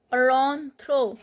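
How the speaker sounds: "rentrent" as "ron-tro", ending silent; silent final T. Shown as a demonstration. Teacher demonstrating a verb ending, "rentrent" as "ron-tro". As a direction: sound out "rentrent" without its last T. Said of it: "T is not pronounced".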